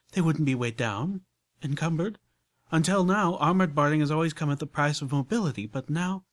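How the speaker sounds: high, loud, glowing with her idea; rapturous lady. Acted. Rarity pitching soul armor to Applejack, rapturous and loud. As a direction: sell the vision with rapture.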